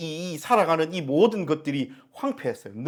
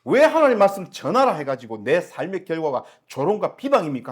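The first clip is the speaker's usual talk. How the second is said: crying out; 4 semitones higher, 5 dB louder than usual. Acted. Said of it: "하나님 앞에 막 소리를 질러요".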